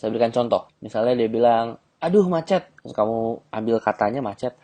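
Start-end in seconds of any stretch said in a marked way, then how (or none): 2.0-2.7 high, complaining sigh about traffic; mock whiny woman. Shown as a demonstration. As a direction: play her moaning about the jam.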